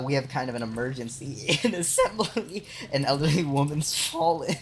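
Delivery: laughing while relaying bad news; laughing retold report. Streamer retells the security call about a fallen woman, laughing. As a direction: report an emergency through breaking laughter.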